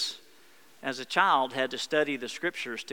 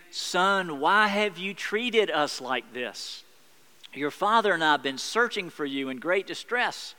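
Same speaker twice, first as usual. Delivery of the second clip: Mary's hurt scold, lightly voiced; scolding mother; 2 semitones higher than usual. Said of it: "she scolds Jesus".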